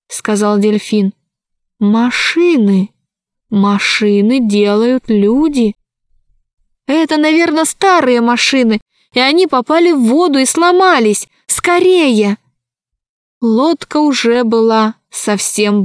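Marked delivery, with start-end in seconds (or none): 1.8-5.7 halting dolphin voice. Acted. Dolphin speaks slowly. 6.9-12.4 urgent. Acted. Alisa urges the dolphins on.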